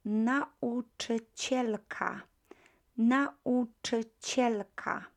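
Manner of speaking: Nauczycielka said slowly, stressed cie; slow model word. Shown as a demonstration. Teacher modelling Nauczycielka for class. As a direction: sound out Nauczycielka. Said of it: "teacher repeats word".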